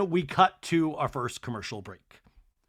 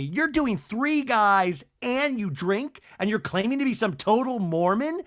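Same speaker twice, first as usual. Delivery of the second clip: mock accusing voice; 6 semitones higher than usual. Mocking retelling of reality fight.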